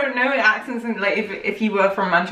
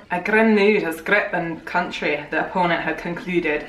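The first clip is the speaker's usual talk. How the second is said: put-on Scottish accent; 4 semitones lower than usual.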